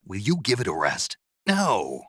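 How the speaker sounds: exasperated protest. Acted. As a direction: protest loudly, fed up with being pestered. Fed up, refuses to continue.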